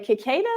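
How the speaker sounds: "Cicada" as kih-KAY-duh, opening on a hard K; mistaken pronunciation. Shown as a demonstration. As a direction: say "Cicada" wrongly, with a K at the start. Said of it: "What did I say?".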